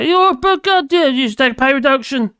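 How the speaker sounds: scolding the Bank of England governor, angry and loud; angry rant. Real, not acted. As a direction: tell him off hard, exasperated.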